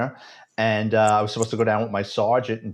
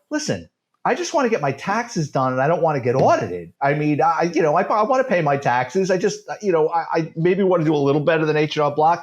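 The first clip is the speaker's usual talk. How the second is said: nervous plea; 6 semitones higher than usual. Retold or imitated. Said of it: "I go".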